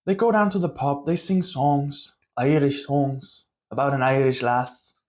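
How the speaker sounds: put-on slipping into a light Irish accent. Vlogger describing the pub singing, light Irish accent. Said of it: "See, I already did it".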